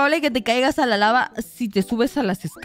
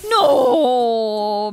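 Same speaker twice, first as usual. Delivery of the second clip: sudden loud crying "no"; dismayed cry; 4 dB louder than usual. Real, not acted. Gamer losing her ladder in the game, loud anguished cry. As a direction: wail as the ladder drops.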